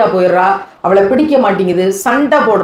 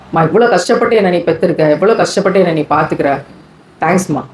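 tender apology; 2 semitones lower than usual. Shown as a demonstration. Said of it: "வாயை திறந்து சொல்லுங்களேன்".

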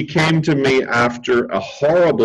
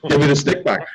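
a much higher ooh, then an eager demand; imitated eager plea; slower than usual. Therapist imitating his client begging for the stick back. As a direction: mimic her wanting the stick back. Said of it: "And she's like".

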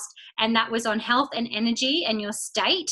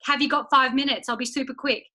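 eager caller; 2 semitones higher, faster than usual. Retold or imitated. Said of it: "Maddie might be like".

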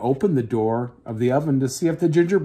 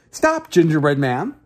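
lightly voiced cow; a hint of a lowing cow; mooing cow; 2 semitones higher than usual. Cow calling after the cookie, lightly voiced. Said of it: "the cow mooed".

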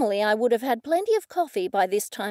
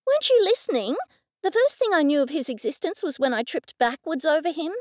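infuriated; 5 semitones higher, faster than usual. Acted. Goldie, angry at the man's question, outburst. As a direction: fire it back, incredulous and cross. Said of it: "I was infuriated".

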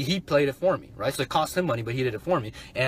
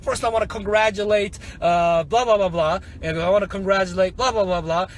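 raised-pitch mock host congratulations; lightly hammed-up presenter; webinar host; 4 semitones higher, 3 dB louder than usual. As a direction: imitate a host rattling off shout-outs. Imitates host congratulating buyers.

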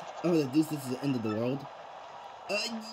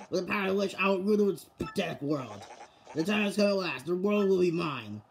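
villain voice; 3 semitones higher than usual. Acted. Voices villain summoning the Shadow Queen.

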